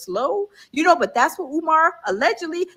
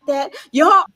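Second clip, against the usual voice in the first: louder, shouted that y'all; half-mock shout of embarrassment; embarrassed shout; 4 dB louder than usual. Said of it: "I was like".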